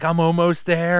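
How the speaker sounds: tense, drawn-out mock pilot; straining pilot. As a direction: drag it out, locked on the target. Acts pilot closing on target.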